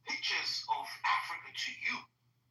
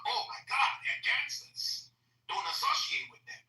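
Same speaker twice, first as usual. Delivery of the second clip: mock alarmed African; 6 semitones higher than usual. Arriving Africans warn each other about gangsters, mock alarm. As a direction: play a shocked newcomer, then whisper the warning. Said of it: "when Africans come".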